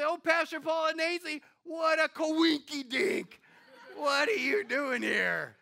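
high, loud gushing church lady; hammed-up delighted parishioner voice; gushing churchgoer. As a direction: greet the pastor with a big surprised gush. Church family surprising the pastor.

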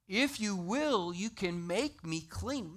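slow, humble plea; pleading leper. Acted. Leper begging Jesus for healing, slow pleading.

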